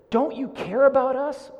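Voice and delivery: high, loud frantic cry; panicked plea. Retold or imitated. Disciples in the storm crying out to Jesus, high panicked plea. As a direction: plead like a terrified sailor in a storm.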